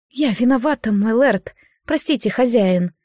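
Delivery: contrite, meek apology; dripping with repentance. Acted. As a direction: lay the remorse on thick. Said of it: "Раскаяние так и сочилось из голоса".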